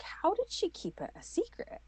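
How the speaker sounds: high-pitched retold bafflement; mildly hammed-up incredulity; baffled question. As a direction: wonder in a high voice how on earth. Retells her baffled question to family.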